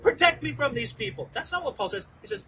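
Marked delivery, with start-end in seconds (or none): 0.0-1.3 high, loud, frantic cry for help; pretend desperate scream. Paul screaming to the Roman commander for protection from the mob, in a hammed-up desperate yell. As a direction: beg for rescue at the top of your voice, half acting it out. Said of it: "wouldn't you expect Paul to be screaming".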